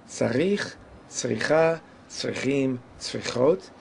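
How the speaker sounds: each word accented on its last syllable: tzaRICH, tzriCHA, tzriCHIM, tzriCHOT; stress moving to end. Shown as a demonstration. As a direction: push "tzarich, tzricha, tzrichim, tzrichot" toward their endings. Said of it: "creating motion towards the end of the word".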